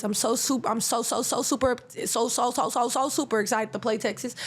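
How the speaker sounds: tripping over the word so again and again; stuttering. Real, not acted. Podcaster stuttering over her Texas excitement. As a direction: stumble through the so's, excited. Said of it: "I'm stuttering today".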